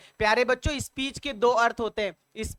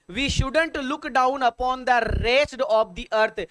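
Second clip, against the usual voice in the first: slow careful read-out; 3 semitones higher, much slower than usual. Shown as a demonstration. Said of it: "reads sentence slowly".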